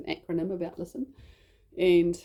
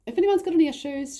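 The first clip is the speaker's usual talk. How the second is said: quoting the pastor; 11 semitones higher, 5 dB louder, faster than usual. Retold or imitated. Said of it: "Pastor Dad says".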